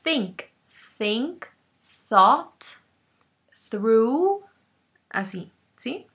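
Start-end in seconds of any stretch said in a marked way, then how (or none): 0.0-4.4 "Thought" with air pushed out between the teeth; voiceless th. Shown as a demonstration. Teacher exaggerating the breathy th for students. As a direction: blow air over the tongue for "Thought".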